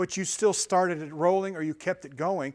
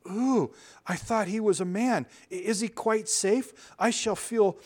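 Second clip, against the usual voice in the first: put-on nervous girl; 4 semitones higher, 3 dB louder than usual. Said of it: "said Susan".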